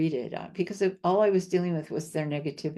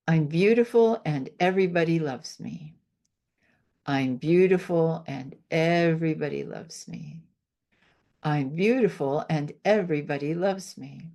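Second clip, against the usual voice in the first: affirmation demo. Shown as a demonstration. Healer demonstrating a self-love affirmation to the host, assured. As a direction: say it like you believe it fully. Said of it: "I'll show you one of my favorite things to do".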